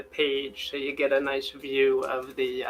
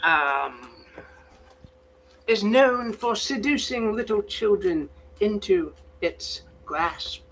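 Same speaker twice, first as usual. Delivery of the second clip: David Attenborough; 6 semitones higher than usual. Acted. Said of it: "supposed to sound like David Attenborough".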